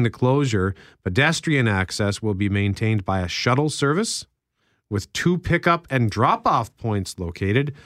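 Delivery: measured radio news read; newsreader voice. Shown as a demonstration. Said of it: "in your masterful newsreader voice".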